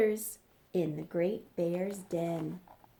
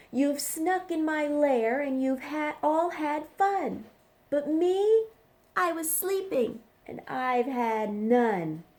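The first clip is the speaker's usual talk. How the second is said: grumpy bear; 7 semitones higher, 4 dB louder than usual. Acted. Angry woken bear complains.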